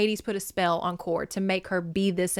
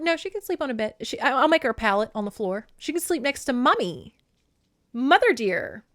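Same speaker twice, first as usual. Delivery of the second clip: higher, syrupy controlling mom; overbearing mother; 4 semitones higher than usual. Retold or imitated. Demeter insisting her daughter sleep beside her, syrupy. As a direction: coo it like a possessive mother. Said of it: "she's just like".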